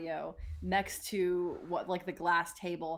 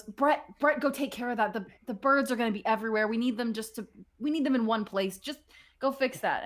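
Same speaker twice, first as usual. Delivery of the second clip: raised, pressing voice with a touch of alarm; urgent orders; 3 semitones higher, faster than usual. Acted. Oscar sends Brett to fix the spilling feeder, urgent. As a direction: issue hurried instructions. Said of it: "sees it and goes".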